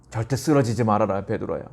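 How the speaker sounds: worried. Retold or imitated. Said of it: "걱정스러운 마음으로".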